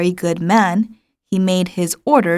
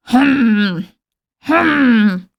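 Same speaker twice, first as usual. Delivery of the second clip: king's hmm; 3 semitones higher, 3 dB louder than usual. A narrator's reading. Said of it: "replied the king".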